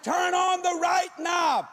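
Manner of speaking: slow hollered warning through the floor; hollering. Retold or imitated. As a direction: holler each word slowly up through the floor. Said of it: "I'm hollering this through the floor".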